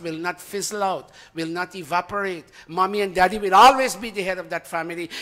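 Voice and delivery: ordinary talk, nothing marked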